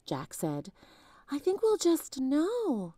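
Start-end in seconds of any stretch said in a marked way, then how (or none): 1.3-2.9 put-on slow, much higher girl voice; lightly voiced young girl, calm and sure; little sister. A narrator's reading. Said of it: "said Annie".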